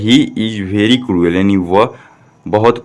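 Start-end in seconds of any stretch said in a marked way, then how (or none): 0.0-1.3 slow, word-by-word read-out; slow model reading. Shown as a demonstration. Teacher shows pupils how to read the sentence, slow model reading. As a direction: read it slowly for learners to repeat. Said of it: "तो कैसे पढ़ दिया गया?".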